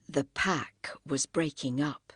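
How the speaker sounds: ordinary delivery, nothing marked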